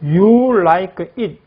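slow teacher model. Shown as a demonstration. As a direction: drawl it for students to copy. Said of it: "그 다음에 또 보겠습니다".

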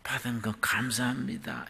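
breathy whisper, barely voiced; hushed grateful prayer; whispered thanks. Shown as a demonstration. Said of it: "이게 아니에요".

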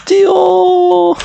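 high frantic shout to run; panicked yell. Real, not acted. Chased by the witch.

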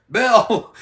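high, loud holler of a name; hollered call. Retold or imitated. Photographer hollering downstairs to Bill, high and loud. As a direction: call down the stairs to him. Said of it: "they'd holler downstairs".

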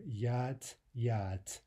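"Yat" with the final D said as a crisp T; final consonant devoiced to T. Shown as a demonstration. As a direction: end "Yat" on an unvoiced T sound. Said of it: "final D in yad".

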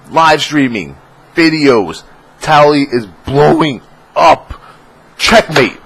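high, loud triumphant hype; hyped bragging. Pretend. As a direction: gloat like a winning champ.

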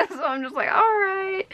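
laughing through the words. Real, not acted. Recalling boyfriend winning, laughing. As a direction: giggle out the words.

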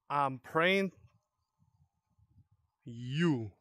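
soft menacing monster voice; quiet creature voice. Pretend. Gamer voicing a monster, lightly menacing. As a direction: mutter it like the creature.

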